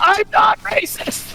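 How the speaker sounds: high, drawn-out protest; mock scream. Player protests as he punches the man, mock screaming. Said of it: "scream that?".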